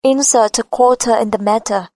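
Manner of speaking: flat American, T in "quarter" and "matter" near a D; flat American accent. Shown as a demonstration. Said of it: "Mà cô sẽ nói giọng rất bằng". (giọng Mỹ, "matter" đọc gần như "madder")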